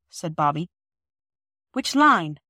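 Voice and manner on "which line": put-on high, loud anxious child; frightened child's quick question; alarmed question. A narrator's reading. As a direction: ask in sudden alarm.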